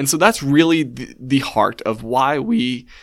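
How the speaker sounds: with a voice crack. Telling someone what you will be talking about on Wednesday night, voice cracking. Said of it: "voice crack there".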